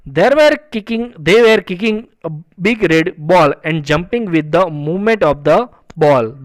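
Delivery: slow, measured English reading; story read-aloud. A narrator's reading. Teacher reading a story sentence to students, slow read-aloud. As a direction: read each phrase out slowly and deliberately.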